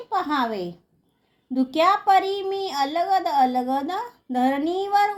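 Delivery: measured, singsong verse reading; lilting schoolroom poem reading; poem recitation. Acted. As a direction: recite line by line, drawing out the line endings.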